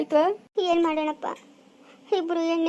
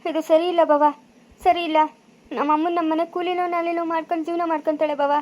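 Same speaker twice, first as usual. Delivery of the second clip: indignant protest. Acted. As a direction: push back hard at the insult. Son protests mother's remarriage proposal.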